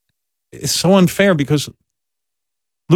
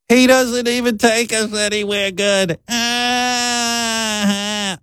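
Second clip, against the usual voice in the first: kvetching mother; 10 semitones higher, much slower than usual. Retold or imitated. Mother voiced in story.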